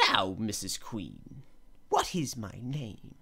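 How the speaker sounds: slow, drawn-out little man demanding an answer. A narrator's reading. Little man slowly challenging the Queen to guess his name. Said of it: "the little man walked in and said".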